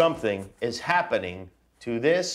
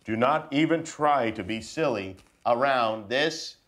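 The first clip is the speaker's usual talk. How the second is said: put-on reading to children. Dad reading a picture book to his kids, mock serious. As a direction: read it solemn and serious to the kids.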